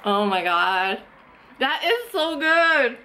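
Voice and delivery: a real foodie's swoon, slow and lifted; delighted first bite. Real, not acted. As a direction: savor every word like the taste just hit you.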